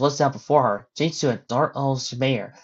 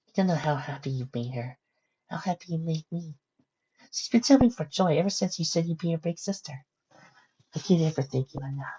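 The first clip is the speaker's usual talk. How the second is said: crying a little; 4 semitones higher, 7 dB quieter than usual. Acted. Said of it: "crying a little".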